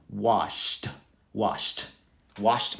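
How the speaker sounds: WASHED as one syllable ending sh-t sound. Shown as a demonstration. Teacher modelling yesterday's form, t ending. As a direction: repeat WASHED with a crisp final t. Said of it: "pronounce it with a T".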